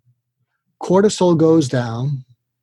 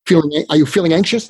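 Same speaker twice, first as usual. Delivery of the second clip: quick, mildly probing question; mock interrogation; faster than usual. Shown as a demonstration. Showing how not to ask a hurting friend, mock interrogation. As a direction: fire it off lightly as a questioner would. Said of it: "it's an interrogation".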